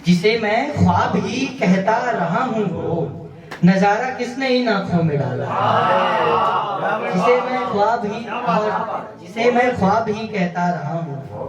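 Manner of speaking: measured mushaira recitation; poetry recital. Acted. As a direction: recite each line of verse to an audience. Recites ghazal couplets to audience.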